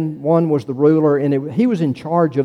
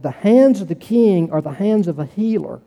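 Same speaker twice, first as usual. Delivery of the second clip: solemn recitation. Shown as a demonstration. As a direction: recite it like a legend being told.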